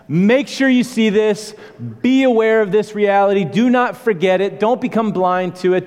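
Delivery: urgent exhortation. Real, not acted. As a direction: rouse them, don't let them look away.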